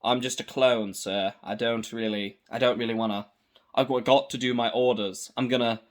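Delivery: just a soldier following orders; regular clone voice. Retold or imitated. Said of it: "originally he goes like".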